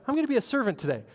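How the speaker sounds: high-pitched, eager pledge; mock enthusiasm, pitched well up; eager resolve. Churchgoer fresh from a sermon, vowing to serve, eagerly.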